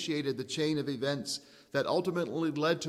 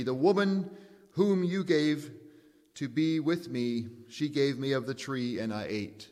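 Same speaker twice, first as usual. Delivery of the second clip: a touch of aggrieved Adam, raised at the start; lightly voiced blaming Adam; Adam blaming quote. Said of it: "Then the man said".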